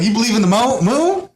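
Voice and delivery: mocking rebuttal.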